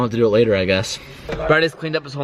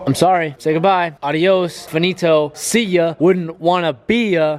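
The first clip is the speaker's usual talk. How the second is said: playful goodbye; 5 semitones higher, slower than usual. Pretend. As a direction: wave it off with a singsong taunt. Playful farewell to the car.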